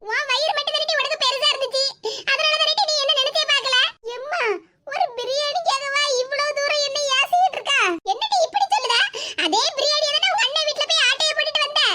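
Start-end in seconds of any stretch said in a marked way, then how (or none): 4.2-11.8 hurt, mildly weepy protest; tearful reproach. Acted. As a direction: scold her through acted tears. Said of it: "இப்படி எல்லாம் அழாதம்மா".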